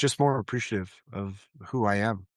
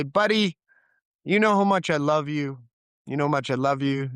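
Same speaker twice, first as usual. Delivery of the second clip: higher, eager bedtime dad; playful retold fatherly affection; upbeat dad voice; 4 semitones higher than usual. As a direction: imitate a dad cheerily addressing his little boy. Retelling bedtime words to young son.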